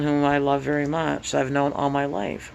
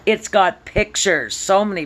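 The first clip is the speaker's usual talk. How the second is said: excited; 7 semitones higher, 4 dB louder than usual. Real, not acted. Thrilled at picture book.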